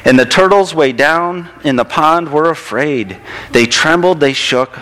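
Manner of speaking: lilting, expressive picture-book narration; storybook read-aloud. A narrator's reading. Reading a turtle story to a child in church, storybook read-aloud.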